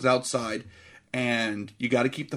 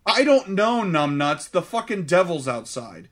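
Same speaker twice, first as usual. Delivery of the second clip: dad snaps back, loud at first; a hammed-up fed-up father yelling at his kid; mock angry dad; 3 semitones higher, 4 dB louder than usual. Host imitates dad yelling at Max, mock angry.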